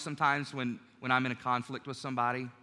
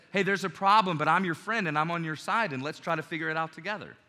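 friendly. Shown as a demonstration. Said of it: "the other says".

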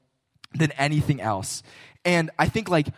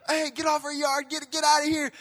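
angry homeowner shouting; 12 semitones higher than usual. Retold or imitated. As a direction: bellow it like an angry neighbor. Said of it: "you hear all this shouting".

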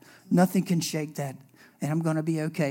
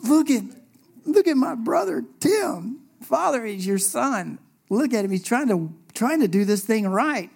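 higher, pleading Jesus voice; 5 semitones higher, 3 dB louder than usual. Pretend. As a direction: coax the Father earnestly.

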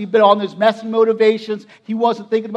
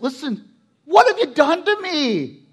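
acted angry demand, pitched higher; mad; 5 semitones higher than usual. Jacob runs out to confront Laban, acted anger. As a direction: confront him, aggrieved and raised. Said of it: "but he is mad".

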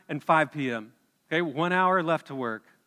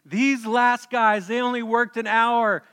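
grumbling complaint; 4 semitones higher, 4 dB louder than usual. Acted. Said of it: "they grumbled at the master".

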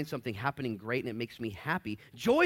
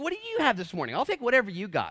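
customers' voices; 8 semitones higher, 6 dB louder, faster than usual. Retold or imitated. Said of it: "And they said".

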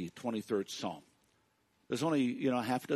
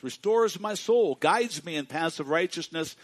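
1 rising preaching; 3 semitones higher, 7 dB louder than usual. Acted. Preacher builds intensity.

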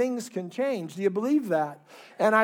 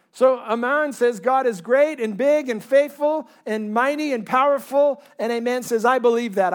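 louder, rousing sermon delivery; emphatic preaching; 2 semitones higher, 6 dB louder than usual. Real, not acted. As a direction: declare it firmly to the congregation. Preaches at full force.

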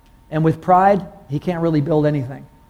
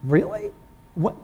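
startled disbelief; 5 dB quieter than usual. Retold or imitated. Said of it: "I'm like".

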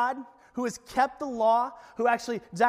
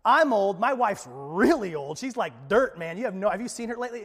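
voicing Zechariah. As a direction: list excuses to God, exasperated. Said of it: "he goes".

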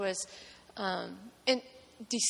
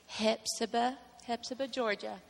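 southern accent; 2 semitones higher than usual. Shown as a demonstration. Showing the church how Hepzibah is said, in a Southern accent. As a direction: say Hepzibah the Georgia way, as locals do. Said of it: "You have to say it with a southern accent".

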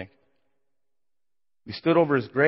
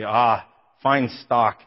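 slow, louder mock admiration; mock praise; 5 dB louder, much slower than usual. Onlookers admiring his family, slow mock praise. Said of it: "you'd look at my family and say".

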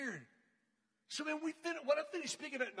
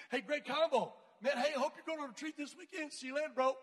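nervous upbeat goodbye; 4 semitones higher, 5 dB louder than usual. Retold or imitated. Nervous escape from silent guy.

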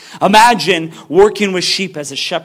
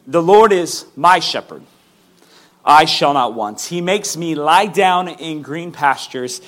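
scripture reading. Acted. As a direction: read it like holy text, unhurried. Rereads the passage.

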